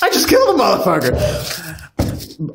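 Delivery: slow, drawn-out joking yell; mock shout. Podcaster repeating a joke line, mock shout. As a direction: stretch it out as a playful shout.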